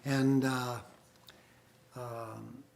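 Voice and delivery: muffled, distant, like under water; bad connection, sound swallowed; underwater. Real, not acted. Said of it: "Sounds like you're underwater".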